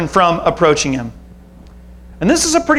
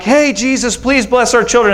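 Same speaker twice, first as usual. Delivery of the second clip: lightly acted harried parent, pitched up; mock parental plea, a bit higher; imitated parent's appeal; 4 semitones higher than usual. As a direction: call for help like a busy parent. Voices parents pleading with Jesus.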